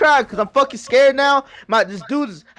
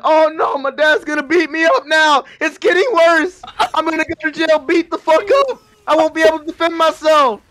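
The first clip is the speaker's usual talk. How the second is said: higher, louder retold panic; panicked; 5 semitones higher, 3 dB louder than usual. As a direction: spiral into mock terror about dad. Panic about dad and jail.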